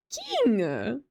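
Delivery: King rung out on its final ng; pronounced as spelled. Shown as a demonstration. Streamer defending the reading to chat, spelled-out pronunciation. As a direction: exclaim King with a heavy ending. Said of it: "pronouncing it the way it's spelled".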